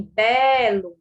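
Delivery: "belo" slowly, BE held long, LO light; stressed syllable lengthened. Shown as a demonstration. Teacher contrasting strong and weak syllables, "belo" with BE drawn out. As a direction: say "belo" stretching the first syllable. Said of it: "o ló é a sílaba átona".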